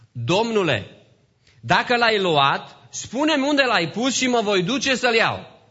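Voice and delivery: high, loud, slow preacher's enactment; declaimed plea to a stranger; Mary's plea. Acted. Voicing Mary pleading with supposed gardener.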